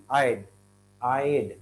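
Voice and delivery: "I'd" repeated, rhyming with "ride"; pronunciation model. Shown as a demonstration. Teacher drills the contraction, careful "I'd". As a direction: say "I'd" as "eyed", one syllable. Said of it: "It pronounces".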